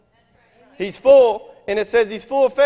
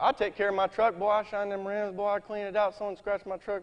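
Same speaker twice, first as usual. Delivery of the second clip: ordinary delivery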